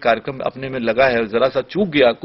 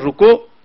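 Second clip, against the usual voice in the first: "रुको" set apart before a pause; pause after रुको; 5 semitones higher, 7 dB louder, much slower than usual. Shown as a demonstration. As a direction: say रुको, then stop briefly. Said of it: "और जरा सा pause". ("रुको" कहकर ज़रा ठहराव)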